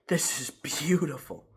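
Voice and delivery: breathy whispered awe, drawn out; awed whisper. Retold or imitated. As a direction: breathe it out like a revelation. Awed quote to friend at dinner.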